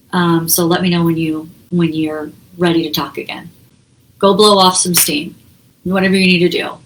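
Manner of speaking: even, detached reassurance; calm, no anger. Shown as a demonstration. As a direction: say it calmly, separated from the emotion. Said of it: "that's the way you should actually say it".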